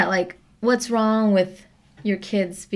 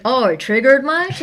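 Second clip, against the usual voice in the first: slow, mocking, higher and louder; mocking taunt; 5 semitones higher, 4 dB louder, slower than usual. Peers taunting someone who objects, mocking slowly. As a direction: sneer it out like a smug peer. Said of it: "Or they'll be like".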